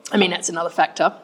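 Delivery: words broken by a swallow near the mic; swallowing mid sentence. Real, not acted. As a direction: gulp mid sentence while speaking. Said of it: "Sorry for my swallowing".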